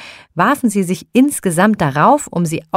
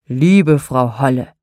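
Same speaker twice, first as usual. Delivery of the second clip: contented Nikolaus; 4 semitones lower than usual. Acted. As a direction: praise the meal with a full belly.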